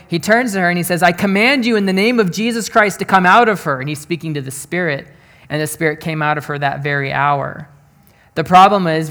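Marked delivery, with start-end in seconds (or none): 1.0-3.8 raised, quicker voice, mildly exasperated; annoyed command. Retold or imitated. Paul turns to the spirit troubling him, mildly annoyed command. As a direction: act out a fed-up order, lightly. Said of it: "he gets really annoyed".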